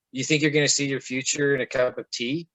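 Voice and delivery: a mildly voiced, sarcastic motherly figure. A motherly spirit voice mocking his hope, lightly voiced sarcasm. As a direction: scoff at him like a knowing mother would. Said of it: "very sarcastically says".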